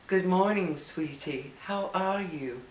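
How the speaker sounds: imitating a soft-spoken British man, lightly; gentle, sweet greeting with a hint of British accent. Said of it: "the softest British accent".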